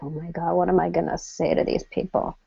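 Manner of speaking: anxious inner voice. Retold or imitated. Nervous guest at networking event.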